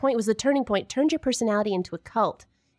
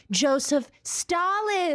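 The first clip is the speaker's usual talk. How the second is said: drawn-out higher introduction; grand guest announcement; 5 semitones higher, slower than usual. Acted. Host introducing Stalin, slow and grand. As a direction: announce him like a star.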